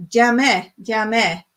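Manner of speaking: jamais with a TZ start, ts-zamais; Cypriot jamais. Shown as a demonstration. Teaching viewers the Cypriot word, jamais said tz. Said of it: "we do it as a T followed by a Z".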